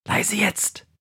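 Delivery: soft, high hush. Acted. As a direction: shush them, finger to lips. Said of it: "hält den Zeigefinger an den Mund, sagt".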